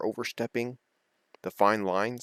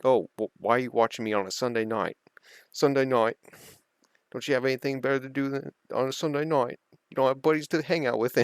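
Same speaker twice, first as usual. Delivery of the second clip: louder, higher, mock-indignant yell at the crowd; mocking the heckler; 6 semitones higher, 4 dB louder than usual. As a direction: taunt the heckler in the stands, half-laughing. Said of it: "He's like".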